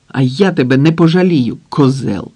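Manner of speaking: loud mocking snarl at the enemy; gleeful angry shout. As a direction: shout with cheerful malice. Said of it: "з веселою злістю крикнув Макар". (весело-злісний вигук)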